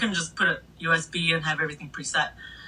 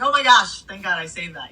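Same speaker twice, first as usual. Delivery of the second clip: thrilled gasp of relief; excited relief; 2 semitones higher, 5 dB louder than usual. Retold or imitated. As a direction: gush with relief. Crowd went crazy, relief.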